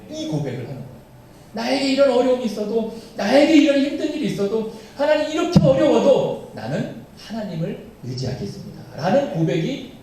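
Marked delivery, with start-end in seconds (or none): 1.5-8.8 higher, louder pleading cry to God; fervent confession. Acted. Preacher voicing David's vow of trust, fervent and raised. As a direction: plead your trust in God despite hardship.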